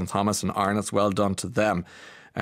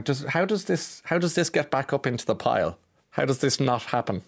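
flustered bafflement; 4 semitones higher than usual. Retold or imitated. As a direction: act lost among the fallen boxes. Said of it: "I was kind of nearly pointing, looking around, going".

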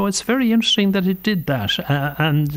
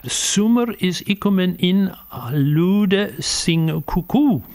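put-on Old English accent; slower than usual. Shown as a demonstration. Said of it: "my old English accent is terrible".

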